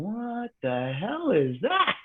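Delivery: very slow, spaced-out musing; dazed wonder. Retold or imitated. Oxygen-starved fighter marvelling at the light, slow and dazed. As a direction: stretch it out, dreamy and fogged.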